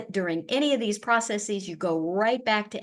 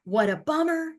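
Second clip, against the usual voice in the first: sympathetic; 7 semitones higher than usual. Shown as a demonstration. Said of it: "are also ways to".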